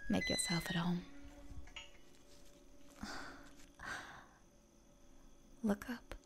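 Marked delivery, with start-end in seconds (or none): 2.8-4.2 long, very quiet breathy sigh; soft sigh. Acted. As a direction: breathe out softly and slowly. Sigh on arriving in the garden.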